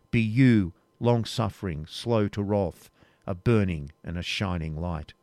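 measured, reverent verse reading; solemn hymn recital. A narrator's reading. Reader reciting Rebecca's evening hymn, solemn and measured.

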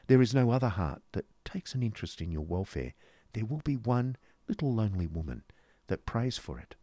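lightly voiced, earnest woman; a hint of tender well-wishing; lonely little woman's farewell. Woman's tender farewell speech in story.

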